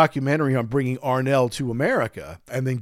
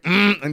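miffed mm; 6 semitones higher, 4 dB louder than usual. Retold or imitated. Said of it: "She's like".

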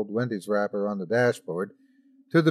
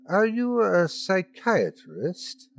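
blurted out; 6 semitones higher, slower than usual. A narrator's reading. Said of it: "I blurted out".

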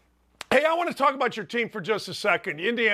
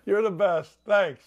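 ordinary delivery

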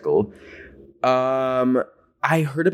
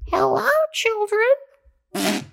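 put-on very high, slow eerie old lady greeting; creepy old woman; much slower than usual. Imitating the creepy old woman greeting the schoolkids, very high and slow. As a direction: drawl it out like a creepy stranger. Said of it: "She said something like".

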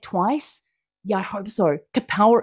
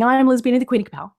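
ordinary talk, nothing marked

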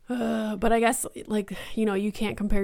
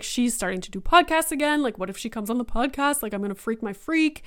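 excited; 2 semitones higher, faster than usual. Retold or imitated. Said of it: "I was so excited".

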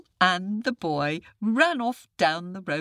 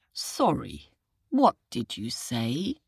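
sleepy jackal; 4 semitones lower than usual. Acted. Jackal feigns deafness.

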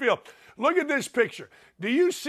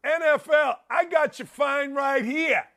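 defiant Sean Payton; 6 semitones higher than usual. Retold or imitated. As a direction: call it out like a cocky coach refusing to pay. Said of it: "good for Sean Payton for saying".

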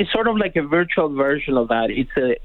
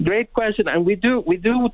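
laughing; 6 semitones higher than usual. Real, not acted. Guest answers the host while laughing. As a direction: still chuckling through the words. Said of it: "He's laughing".

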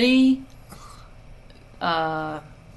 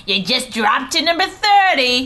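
mimicked alarmed caller; 4 semitones higher, 5 dB louder than usual. Mimics Elise's alarmed phone call.

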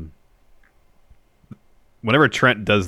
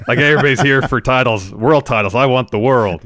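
villain voice; 4 semitones higher, 5 dB louder than usual. Pretend. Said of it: "he should say world domination".

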